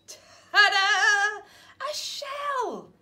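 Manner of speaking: loud, high showman reveal; proud ta-da. Acted. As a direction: present it like a magic trick. Norman reveals new shell.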